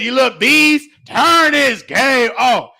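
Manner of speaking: slow shouted order; mama yelling. Retold or imitated. Drunk mama yelling at kids over the video game, slow shout. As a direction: drag it out like an angry drunk mom.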